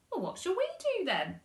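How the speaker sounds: put-on high, loud child; whiny little girl. Laura asking her mum, high whiny child. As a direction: whine it like a bored girl.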